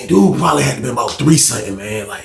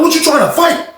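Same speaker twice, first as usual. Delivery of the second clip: fight challenge; 13 semitones higher than usual. Retold or imitated. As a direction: call him out.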